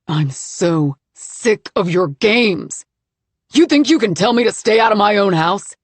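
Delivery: loud, slow raging rant; enraged husband ranting as he searches the room; furious. Acted. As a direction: let the anger boil over.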